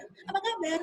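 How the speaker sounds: "Apa kabar" pitched high, falling at the end; high-tuned greeting on "Apa kabar"; varied intonation. Shown as a demonstration. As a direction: lift "Apa kabar" well up, then let "kabar" drop. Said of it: "mengatakan apa kabar dengan berbagai intonasi".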